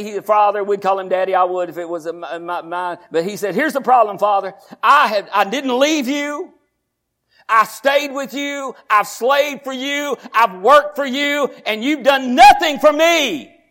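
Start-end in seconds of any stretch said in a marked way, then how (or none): 3.5-13.6 high, slow, rising complaint; a slow, high, wounded protest; aggrieved son. Acted. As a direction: plead the grievance, building louder. Son's grievance to father.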